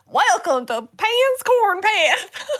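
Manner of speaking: high, slow, creepy welcome; drawn-out haunted-house greeter; spooky attraction host voice. Pretend. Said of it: "Especially the voice we were doing earlier".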